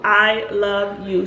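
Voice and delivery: "I love you" drawn out slowly for weight; slow sincere I love you. Shown as a demonstration. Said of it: "They cannot fight through".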